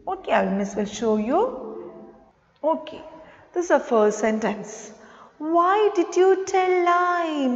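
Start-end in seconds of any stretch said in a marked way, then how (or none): 5.4-7.5 a hint of a scolding mum, pitched higher; mother asking. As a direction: lightly voice mum asking why you lied. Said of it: "Mama's asking".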